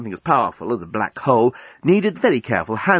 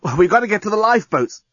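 Lucy voice; 9 semitones higher than usual. Acted. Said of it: "explained Lucy".

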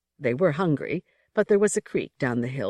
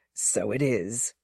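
polite; 5 semitones lower, 3 dB quieter, slower than usual. Acted. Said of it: "Bede said politely".

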